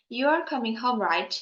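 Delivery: "right" dips, then rises at the end; rising tag intonation. Shown as a demonstration. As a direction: lift the end of "right" to express doubt. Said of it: "use rising intonation because the sentence".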